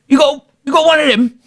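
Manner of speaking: retelling the question to Jim, laughing. Retold or imitated. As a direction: ask it while cracking up.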